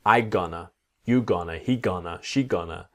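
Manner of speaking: "I gonna" said without the verb to be, as learners do; mistake demo. Shown as a demonstration. Teacher imitating the learners' mistake, leaving out the verb. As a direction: imitate the common error of missing "I'm". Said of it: "spend years with this mistake".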